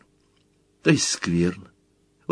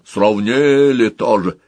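a slow, slightly louder mock bass; a boy faking a gruff baker woman; 4 dB louder, slower than usual. Big Motl plays the baker woman, in mock bass. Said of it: "Мотл большой басом".

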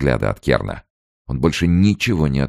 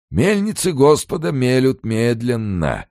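unctuous triumphant recital; 11 semitones higher than usual. A narrator's reading. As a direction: preach it smugly like a pious hypocrite. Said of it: "елейно и торжествующе продекламировал".

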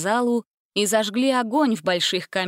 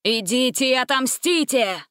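higher, ringing order; sinister command; 4 semitones higher than usual. A narrator's reading. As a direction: set them on him. Stranger commands the animals.

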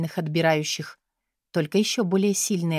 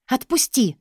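shout; 6 semitones higher than usual. A narrator's reading. Katya struggling in the guard's arms, shouting. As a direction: yell at the man carrying her. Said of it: "крикнула Катя".

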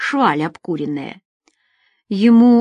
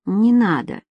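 unconvincing. A narrator's reading. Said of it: "проговорив неубедительно".

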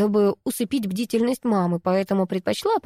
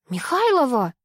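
shout; 5 semitones higher than usual. A narrator's reading. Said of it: "неожиданно завопила в трубку".

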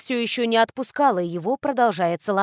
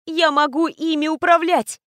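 joyful excitement; 6 semitones higher, 4 dB louder than usual. Acted. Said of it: "чтобы не рассмеяться в голос, от счастья".

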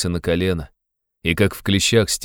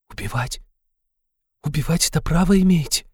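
aghast; 10 semitones higher than usual. A narrator's reading. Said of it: "всплеснула руками Соня".

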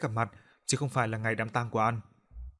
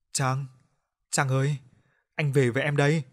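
a lightly voiced ghost calling her name, a touch louder; a dead lover's eerie call, only lightly voiced; 2 semitones higher, 4 dB louder than usual. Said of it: "rồi cười khẳng khẳng vang lên mà nói". (hồn ma gọi tên, giọng hơi rợn)

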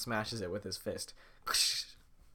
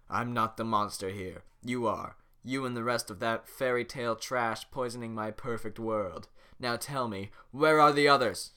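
villain interrogation; 7 dB louder than usual. Acted. Farquaad interrogating the prisoner.

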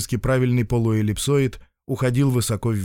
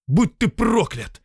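desperate curse; 10 semitones higher, slower than usual. Acted.

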